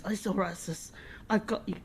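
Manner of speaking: whispered gently, like soothing his sister; hushed reassurance, almost no voice; soft comforting whisper. Retold or imitated. Brother comforting sister, retold.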